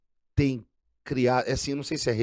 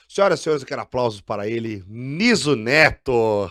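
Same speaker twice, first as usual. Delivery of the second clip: grand entrance announcement. Real, not acted. Host announces guest's entrance.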